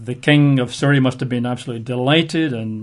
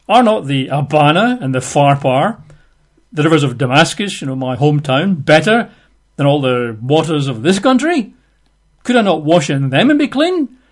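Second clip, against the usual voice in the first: spitting fury; 4 dB louder than usual. Acted. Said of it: "he's spitting with, uh, fury".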